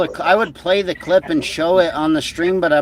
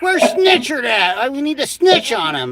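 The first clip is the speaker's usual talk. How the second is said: mock impression; 6 semitones higher than usual. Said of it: "He's like".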